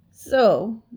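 loud, drawn-out scornful word; disgusted. A narrator's reading. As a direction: say it with heavy disgust. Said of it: "he said in disgust".

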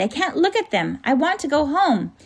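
put-on high, whimpering child's plea; distressed cry. A narrator's reading. Lindy begs the Professor to go home, distressed cry. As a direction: plead high, close to tears. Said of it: "she cried".

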